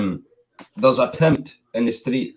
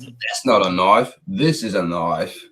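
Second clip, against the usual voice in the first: slow, lower mock Crocodile Dundee line; Crocodile Dundee quote; 3 semitones lower, slower than usual. Another friend echoes the Crocodile Dundee knife quote, slow mock drawl. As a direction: deliver the knife line slowly like the film hero. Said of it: "like Crocodile Dundee kind of shit".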